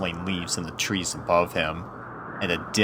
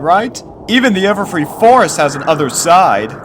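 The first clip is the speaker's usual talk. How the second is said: high, louder colt voice, hopeful; encouraging young colt Snail; 12 semitones higher, 10 dB louder than usual. Acted. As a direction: cheer up your best friend.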